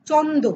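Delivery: চন্দ্র softened to "chondo", without the r; everyday চন্দ্র with the r dropped; in-between colloquial form. Shown as a demonstration. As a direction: say চন্দ্র as half-changed "chondo". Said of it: "চন্দ্রর মাঝখানের যে স্তর সেটা হচ্ছে".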